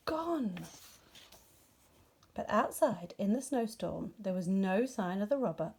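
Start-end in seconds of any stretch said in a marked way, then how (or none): 0.1-0.7 Bear voice. Acted. Bear's dismayed cry.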